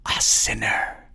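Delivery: slow ghostly whisper; spirit voice. A narrator's reading. Spirit answering Navagin, ghostly whisper. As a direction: answer from beyond.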